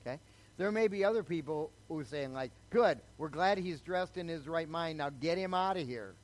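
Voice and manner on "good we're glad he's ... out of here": louder, higher, sniffy church voice; mock dismissive church folk. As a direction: play the smug churchgoers wanting him gone. People dismissing the new convert.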